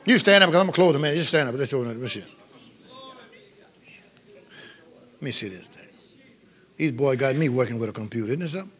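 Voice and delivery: low, soft talk off to one side; quiet aside. Real, not acted. Preacher fiddling with the computer, quiet low aside. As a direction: drop out of preaching into private muttering.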